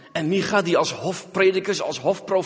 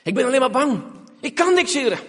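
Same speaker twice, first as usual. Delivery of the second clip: frightened plea. Acted. Gideon pleads weakness.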